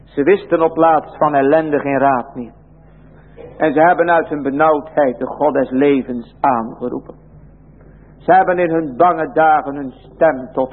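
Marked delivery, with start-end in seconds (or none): none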